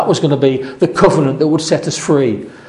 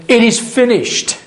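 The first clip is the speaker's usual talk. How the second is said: anguished cry; 9 semitones higher than usual. Retold or imitated. Preacher voicing Jesus's final cry from the cross, high and strained. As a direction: voice leaps much higher on It is finished, strained. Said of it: "final moment, saying".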